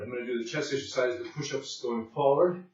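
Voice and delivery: winded after a hard set; out of breath. Real, not acted. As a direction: talk while catching your breath. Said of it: "when I catch my breath".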